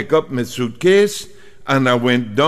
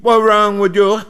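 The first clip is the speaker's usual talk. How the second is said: irritated; 5 semitones higher than usual. Retold or imitated. Arguing with island man.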